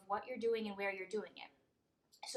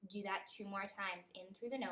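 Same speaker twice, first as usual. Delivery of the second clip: measured meditation guide, long pauses between phrases; guided meditation. Acted. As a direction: lead them gently through each breath, leaving room. Leads a breathing meditation.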